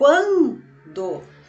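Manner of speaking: quan in quando stretched, held long and strongly stressed. Finding the strong syllable in the word quando: stretched, stressed quan in quando. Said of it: "quem eu estiquei um pouquinho mais, quem eu falei com mais força? O quan".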